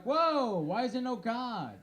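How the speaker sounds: a startled whoa then despair; hammed-up horror; mock shock. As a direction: recoil at the sight of him. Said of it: "They're like".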